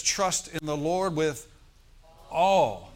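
slow build then all shouted loud. Real, not acted. Preacher drives the verse home to the congregation, shouting all.

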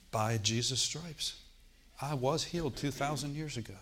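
measured, deliberate declaration; quietly reenacted slow confession; slow, methodical. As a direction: recite it unhurriedly, thinking about each phrase. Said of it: "I would say it methodically, slowly".

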